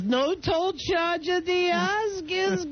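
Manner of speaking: hammy joke-reading voice. Pretend. Reading a listener's joke aloud.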